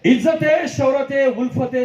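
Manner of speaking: filmi dialogue delivery, each line falling; Rajesh Khanna impression. Imitating Rajesh Khanna's dialogue for Ravangavkar on stage. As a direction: deliver it like a Bollywood star's famous line. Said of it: "Rajesh Khanna साहेब म्हणले असते".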